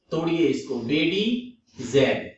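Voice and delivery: बेडीजेल very slowly, split as बेडी, जेल; low, drawn-out बेडीजेल in separate parts; broken into parts. Shown as a demonstration. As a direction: break बेडीजेल in two with a clear gap.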